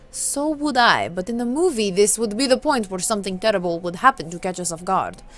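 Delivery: hint of a Russian accent. Count predicting trouble as in movies, Russian accent. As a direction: play the Count lightly Russian. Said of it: "I'm gonna give him his Russian accent back".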